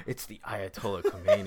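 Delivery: retold astonishment with an audible gasp; mock gasp. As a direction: gasp before a comic reveal. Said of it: "like, gasps".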